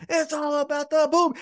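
lightly voiced Adam Cole; Adam Cole catchphrase. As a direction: shout the catchphrase like on the mic. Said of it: "Adam Cole goes".

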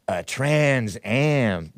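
slow drawn-out drag queen voice; sassy drag queen. Retold or imitated. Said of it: "the drag queen impression".

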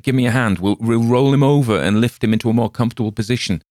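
a keen stranger ready to lift him, a bit quickly; bystander voice. Acted. Stranger moves injured man.

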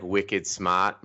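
slow, amateur Boston accent with a dropped R; butchered Boston accent. Shown as a demonstration. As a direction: have a clumsy go at a Boston accent. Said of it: "I totally butchered that accent".

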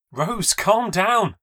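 high, slow and loud, pleading; alarmed plea. Acted. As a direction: push her off and beg her to stop.

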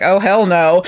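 a mock-panicked captain, cracking up; laughing mock Picard. Captain yelling for the counselor, laughing. Picard voiced calling for Deanna.

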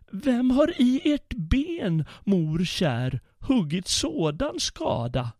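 put-on child crying out. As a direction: squeal it like an alarmed small boy. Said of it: "skrek han".

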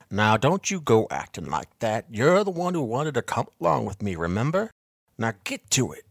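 mock-stern old man scolding his helper; harsh scolding. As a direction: give the boy a hard time. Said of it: "Bartleby's tone was harsh".

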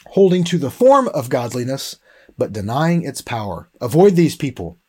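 forceful Bible reading to the congregation; scripture reading. Acted. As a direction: proclaim the warning list like a prophet.

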